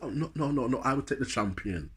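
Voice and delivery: insistent reply with a Jamaican tinge; Jamaican accent. Retold or imitated. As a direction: refuse with a bit of Jamaican accent. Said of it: "my Jamaican accent come out a bit".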